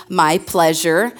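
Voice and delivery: slow, drawn-out "My pleasure"; Chick-fil-A reply. Retold or imitated. To the congregation, imitating Chick-fil-A staff, slow and sweet. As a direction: stretch "My pleasure" out slowly and sweetly. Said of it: "say it with me".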